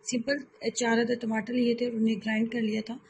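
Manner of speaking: ordinary talk, nothing marked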